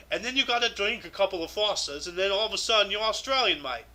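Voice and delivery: joking Aussie accent demonstration; mock Australian accent. Shown as a demonstration. Host jokes on how to talk Australian, mock Aussie accent. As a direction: slide into a badly faked Australian accent. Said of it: "in an Australian accent".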